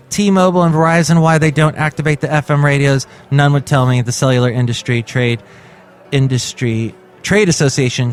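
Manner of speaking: measured news-article reading; read-aloud podcast news item. Acted. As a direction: read the report out to listeners.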